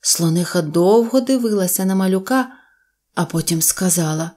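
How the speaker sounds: ordinary delivery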